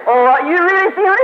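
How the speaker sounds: a hint of an amazed elderly wife; excited old woman.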